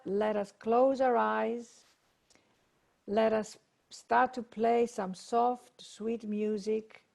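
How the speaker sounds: slow, gently settling meditation lead-in; guided meditation. Real, not acted. Begins leading a meditation.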